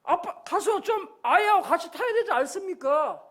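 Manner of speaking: mildly agitated urging; anxious wife. Retold or imitated. Wife urges husband to join the child, mildly anxious. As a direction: lightly voice a worried wife pressing him. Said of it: "아내가 막 마음이 탑니다".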